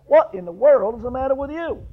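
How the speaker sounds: a neighbor startled at the mess; alarmed neighbor. Retold or imitated. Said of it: "He says".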